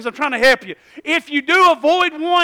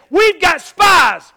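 exclaiming king; 5 semitones higher, 7 dB louder, much slower than usual. Acted. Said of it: "He said".

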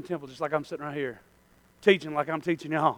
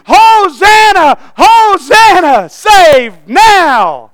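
high, loud, drawn-out acclaim; slow, stretched mob cheer; screaming crowd; 14 semitones higher, 22 dB louder, much slower than usual. Acted. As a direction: shout it like a crowd hailing a king. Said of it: "they were screaming".

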